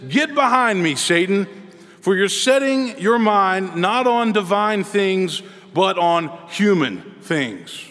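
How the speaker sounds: mild quoted rebuke, slowing on the later words; retold rebuke. Preacher quoting Jesus rebuking Peter, mild measured rebuke. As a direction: deliver a measured reproof as a preacher quoting scripture. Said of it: "Jesus rebukes Peter and says".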